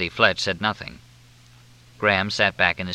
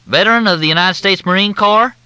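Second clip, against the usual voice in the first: high, loud, syrupy Southern drawl; Southern officer on the phone, in a thick drawl; 12 semitones higher, 7 dB louder than usual. Acted. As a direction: drawl it out like a courteous Southern major. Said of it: "The drawl was thicker than Mississippi mud".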